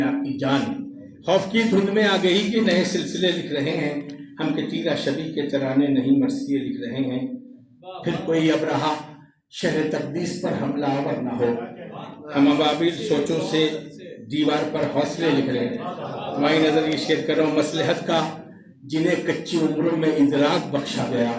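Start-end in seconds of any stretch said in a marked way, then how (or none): 1.3-15.8 measured mushaira declamation; poetry recitation. Acted. Poet recites his ghazal. 17.6-21.3 measured mushaira declamation; poetry recitation. Acted. Poet recites his ghazal.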